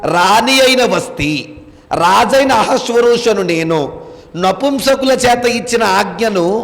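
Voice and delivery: slow, measured reading aloud; scripture reading. Acted. Teacher reads the verse to the class, slow scripture reading. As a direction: read the verse out slowly, phrase by phrase.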